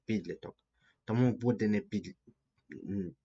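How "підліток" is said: "Підліток" stressed on ПІД; PIDlitok, with the first syllable of "Підліток" carrying the stress. Shown as a demonstration. Teacher answers where the stress falls, "Підліток" stressed on ПІД. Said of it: "На перший склад".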